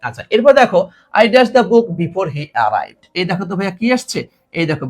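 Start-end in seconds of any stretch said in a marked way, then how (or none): 1.2-3.0 very slow, each word laid out; teacher reading the example slowly; slow model read. Shown as a demonstration. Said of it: "reads example sentence".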